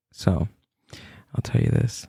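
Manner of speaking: hushed, secretive whispering voice. Whispering something scary while the other person begs them to stop, whispering. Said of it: "Yeah, I'm whispering".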